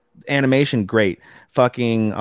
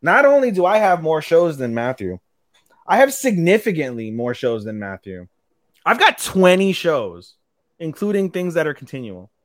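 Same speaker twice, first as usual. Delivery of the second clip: higher-pitched, emphatic boast; grand announcement; 5 semitones higher than usual. Real, not acted. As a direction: announce it proudly, building up to the big reveal. Proud build-up to show count boast.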